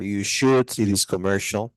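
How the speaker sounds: SHOULD stressed as the emphatic word. Shown as a demonstration. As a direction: put the weight on SHOULD. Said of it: "you should stress the word".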